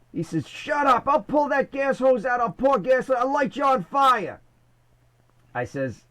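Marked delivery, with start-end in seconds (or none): 0.5-4.4 mock threat. Tommy threatening the attendant.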